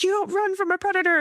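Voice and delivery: high, fast mock shout; retold shout. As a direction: snap it out as a firm warning. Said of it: "And she's like".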